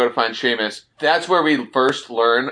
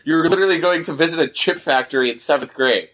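Kyle mocked in a much higher kid voice; whiny kid; 6 semitones higher than usual. Recapping Kyle's complaint to Bonnie, in a high mocking kid voice. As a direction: pitch up high to mock a whiny boy.

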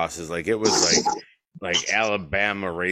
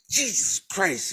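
high, slow, appalled groan of embarrassment; drawn-out horrified gasp at dad's words, pitched high; mock mortified cry in the checkout line; mortified exclamation; 12 semitones higher than usual. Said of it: "And I went".

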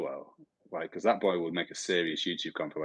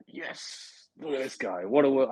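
excited fan; 6 semitones higher, slower than usual. Retold or imitated. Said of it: "imagine that in a Welsh accent".

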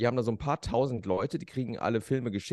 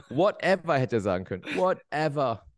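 put-on Korean accent; 3 semitones higher, 4 dB louder than usual. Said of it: "Du hast zwei Akzente drauf".

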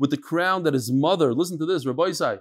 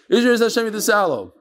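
quick retake; 4 semitones higher, 3 dB louder, faster than usual. Shown as a demonstration. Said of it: "I have an inappropriate joke".

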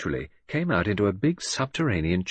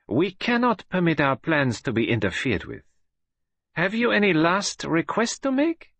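menacing villainess; 9 semitones higher, 3 dB louder than usual. A narrator's reading. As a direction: gloat over a trapped enemy.

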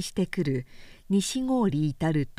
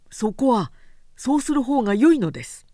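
stiff formal samurai; 5 semitones higher, 5 dB louder, faster than usual. A narrator's reading. Assistant insists firmly.

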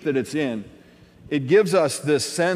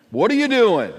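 raised questioning; 6 semitones higher, 5 dB louder than usual. Acted. Calling out the ambiguous question.

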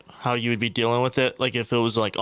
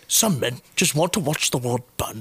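mimicking friend. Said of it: "I'm mimicking you".

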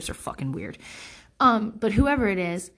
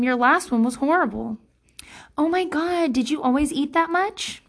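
sweetly mocking, higher passive-aggressive voice; catty backhanded compliments; 4 semitones higher than usual. Quoting the mean things people said to her, mock sweet. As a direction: lightly imitate a catty acquaintance. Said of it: "personal things that people have said to me".

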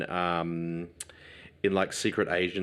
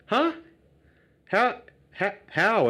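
stunned disbelief; 13 semitones higher, slower than usual. Real, not acted. Disbelief continues.

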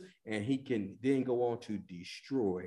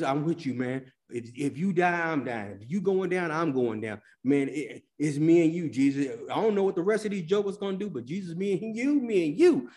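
lightly voiced Peter, bragging loyalty, building to a loud cry; a hint of a cocky disciple; Peter boasting; 3 semitones higher, 3 dB louder than usual. Preacher voicing Peter swearing loyalty to Jesus, rising to a shout. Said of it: "Peter talked to Jesus".

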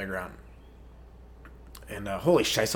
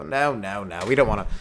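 put-on old person voice; 4 semitones higher, 4 dB louder than usual. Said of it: "you go".

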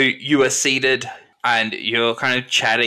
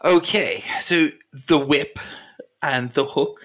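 measured Ethel character. Acted. Game master voices Ethel responding.

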